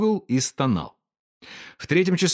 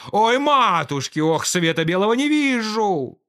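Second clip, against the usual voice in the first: much higher wail of pain; 9 semitones higher than usual. A narrator's reading. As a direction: cry out from toothache. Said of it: "вопил он".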